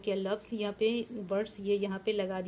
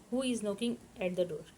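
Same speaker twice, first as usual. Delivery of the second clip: slow dictation; much slower than usual. Shown as a demonstration. Teacher dictating English question.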